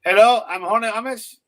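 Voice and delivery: horny Amish character. Pretend. Acts out a horny Amish caller.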